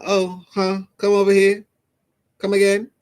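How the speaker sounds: high, light imitation of a woman beckoning; mock woman's call. Imitating a woman calling a man over, high and teasing.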